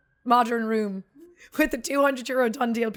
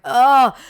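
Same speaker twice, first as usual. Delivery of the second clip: exclamation of dismay; 3 semitones higher, 10 dB louder than usual. Retold or imitated. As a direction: re-enact the dismayed "oh". Retelling reaction to smashed mirror.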